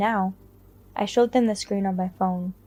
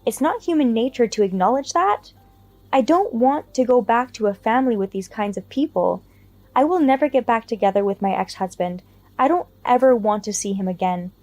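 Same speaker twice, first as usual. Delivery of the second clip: snapping; 4 dB louder than usual. Acted. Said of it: "I snapped again".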